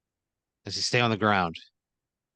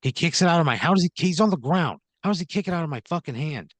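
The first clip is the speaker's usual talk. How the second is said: incredulous, voice jumping up; incredulous protest; 7 semitones higher than usual. Real, not acted. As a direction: protest it in outraged disbelief. Player protests being disarmed by downed man.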